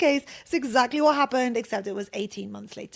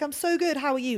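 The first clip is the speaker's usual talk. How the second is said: overly polite cheer; 5 semitones higher than usual. Retold or imitated. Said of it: "And I was like".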